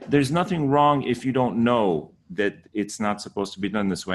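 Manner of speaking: normal talking voice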